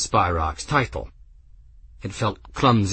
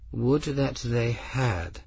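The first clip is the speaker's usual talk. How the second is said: quietly; 3 semitones higher, 6 dB quieter, slower than usual. A narrator's reading. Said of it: "Albion said quietly".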